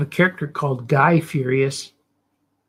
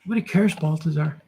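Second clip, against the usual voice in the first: a hint of a needling critic, pitched up; heckling critic. Critic cuts in on the artist's show, lightly voiced heckling. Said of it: "hope that critic leaves me alone".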